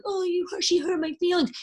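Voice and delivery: high, whiny mock-hurt voice. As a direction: imitate a touchy texter, high and wounded. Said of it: "And they're like".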